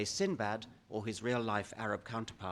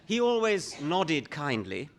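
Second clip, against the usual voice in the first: laughing; 3 semitones higher, 5 dB louder than usual. Real, not acted. Laughing at his own story.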